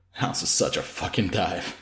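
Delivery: slow, quiet, holding back; steady yourself through it; fighting composure. Acted. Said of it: "fighting to hold on to his composure".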